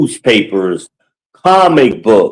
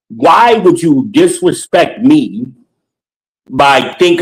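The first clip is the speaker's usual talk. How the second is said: retold confrontation; 4 semitones higher than usual. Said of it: "I said it just like that".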